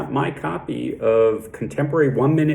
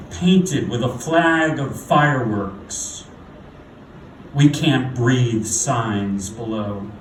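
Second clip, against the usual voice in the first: poem recitation; 3 dB louder than usual. Acted. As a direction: recite it deliberately, leaning into key words, falling at line ends. Recites own poem on stage.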